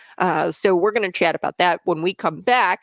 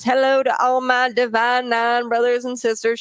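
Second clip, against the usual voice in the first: higher-pitched mimicry of a Black accent; imitated Black accent; 6 semitones higher than usual. Host mocking Harris greeting Divine Nine, imitated Black accent. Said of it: "slips into a black accent".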